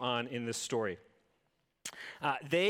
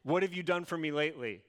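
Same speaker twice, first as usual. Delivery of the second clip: sassy demand; faster than usual. Retold or imitated. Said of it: "it's like the ultimate".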